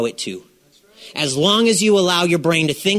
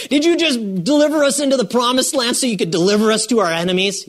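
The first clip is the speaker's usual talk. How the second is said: whining Joshua; 6 semitones higher, faster than usual. Retold or imitated. Mock Joshua complaining.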